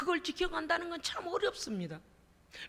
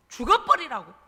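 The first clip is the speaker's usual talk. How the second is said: wife's scornful shout; 2 semitones lower, 9 dB louder than usual. Acted. Wife screams at Job.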